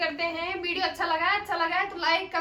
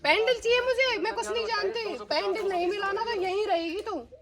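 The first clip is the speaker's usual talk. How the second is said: angry ultimatum; 4 semitones higher than usual. Acted. Employer demanding pendant back from maid, threatening. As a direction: lay down a threat.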